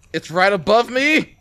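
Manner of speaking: slow, high frightened cry; alarmed shout; scared. Real, not acted. Monster in the vent above.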